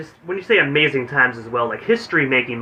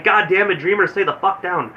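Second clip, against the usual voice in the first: mild, higher-pitched mock yell at the TV; retold yelling; 6 semitones higher than usual. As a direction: holler at the screen in exasperation, half-hearted. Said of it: "I still yell at the T V".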